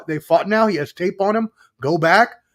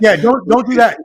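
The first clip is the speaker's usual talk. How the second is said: laughing; 6 semitones higher, 8 dB louder than usual. Real, not acted. Laughing at butchered name.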